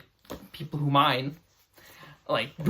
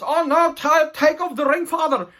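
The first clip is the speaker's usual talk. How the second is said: much higher, louder mock wail; pleading son; 11 semitones higher, 5 dB louder than usual. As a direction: whine the plea, hammed-up. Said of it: "And he says".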